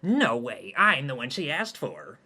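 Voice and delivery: prepubescent squeak. Acted. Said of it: "balls have ascended to prepubescent levels".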